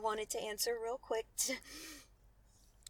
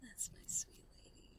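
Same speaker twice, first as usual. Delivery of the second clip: whispering; 6 dB quieter than usual. Acted. Praising partner softly.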